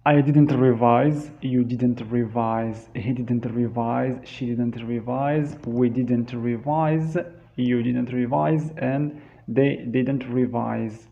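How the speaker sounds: steady conjugation drill; teacher's drill. Shown as a demonstration. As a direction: recite each form for the class. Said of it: "We say".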